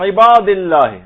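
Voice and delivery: عباد said with a distinct throaty ain; careful Arabic ain; clear ain sound. Shown as a demonstration. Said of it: "عین کی آواز نکلنی چاہیے".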